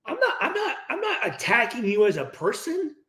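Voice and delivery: chuckling through I'm not attacking you; light laugh to soften the critique; laughing reassurance. Retold or imitated. Teammate calming a hurt teammate, laughing.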